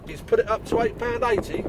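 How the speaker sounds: mock-disbelieving echo, rising at the end; retelling his shock at the customer's price; incredulous. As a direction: repeat "eight pound eighty" as if you can't believe it. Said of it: "And I'm like, "What?".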